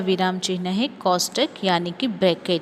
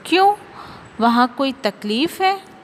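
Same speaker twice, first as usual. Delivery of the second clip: surprised question; 4 semitones higher than usual. Acted. Example sentence read expressively.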